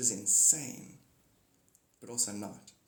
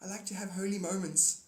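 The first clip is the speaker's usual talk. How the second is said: slightly high, meek excuse; mild mock contrition; sheepish apology; 5 semitones higher than usual. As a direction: apologise to the one you woke. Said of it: "I'm like".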